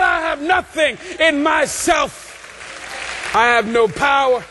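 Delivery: rhythmic preaching building to a cried-out peak; preacher in full flow, stretching key words; impassioned preaching. Real, not acted. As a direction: hammer each repeated phrase, rising in fervor.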